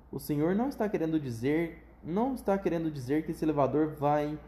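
halting, repeating with nerves; stammering. Acted. Grandpa Joe to Wonka, mildly stammering. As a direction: stumble over the words in disbelief. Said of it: "gaguejou o vovô José".

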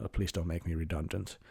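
begging quietly for his job; quiet pleading. Retold or imitated. Retelling David Brent begging softly not to be fired. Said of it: "hyvin hiljaisella äänellä murtuu ja sanoo".

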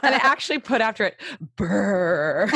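laughing through the words. Real, not acted. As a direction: giggle out the caption. Laughing about her own caption.

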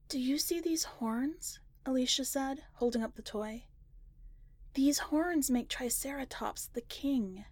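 put-on a small child lost in her game; young sister showing her dinosaur toy; little girl. Little sister explaining toys.

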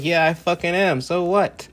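a cocky self unbothered by critics; mock defiant boast. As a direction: throw it back in their face. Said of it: "and I'd be like".

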